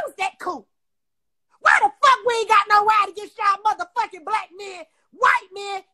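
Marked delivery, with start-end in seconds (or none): 1.6-5.8 furious shout. Real, not acted. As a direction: shout it out, much louder. Furious rant about violence on women.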